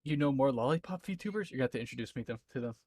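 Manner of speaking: talking with tongue out; words past a stuck-out tongue; tongue sticking out. Real, not acted. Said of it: "My tongue is sticking out".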